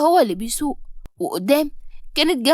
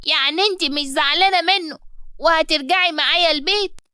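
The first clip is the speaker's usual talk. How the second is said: put-on hopeful child; 4 semitones higher than usual.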